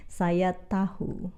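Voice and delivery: "tahu" slowly, with its h sounded; formal pronunciation. Shown as a demonstration. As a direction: model "tahu" carefully as ta-hu. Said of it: "Formally, people".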